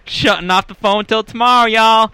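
put-on female Southern accent. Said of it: "a female Southern accent".

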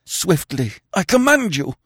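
high, loud commanding voice building to a cry; imperious command. Acted. Dying king commands his sister to strike, building imperious. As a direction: order her with a king's authority. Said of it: "the old imperious note in his failing whisper".

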